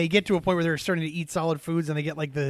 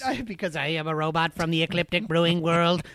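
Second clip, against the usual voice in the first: flat robot voice. Pretend. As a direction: talk like a robot. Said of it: "Are you talking like that on purpose?".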